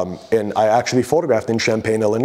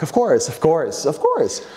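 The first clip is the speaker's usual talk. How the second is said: mock compliance; 6 semitones higher, slower than usual.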